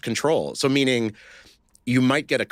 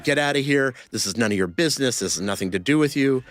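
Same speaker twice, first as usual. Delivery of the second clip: retold angry soldier; 6 semitones higher than usual. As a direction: imitate the soldier getting in your face. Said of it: "we were screaming at each other".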